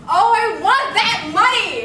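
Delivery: slow, loud, swooping wail of longing; anguished craving; desperate greed. Acted. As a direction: howl with greedy hunger. Schemer craves the money.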